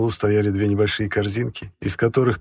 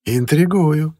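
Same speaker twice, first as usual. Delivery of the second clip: smiling housekeeper; 7 semitones higher, 7 dB louder, much slower than usual. A narrator's reading. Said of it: "улыбнулась в ответ экономка".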